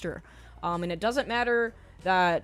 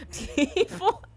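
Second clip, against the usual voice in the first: sarcastic; 4 semitones higher, 3 dB louder than usual. Real, not acted. Mocking Hollywood reasoning, sarcastic.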